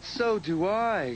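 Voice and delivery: groaned. A narrator's reading. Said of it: "she groaned".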